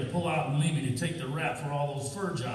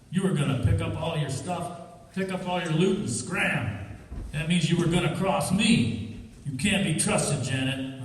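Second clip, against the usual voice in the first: angry; 3 semitones higher than usual. Acted. Harry angrily accuses Janet.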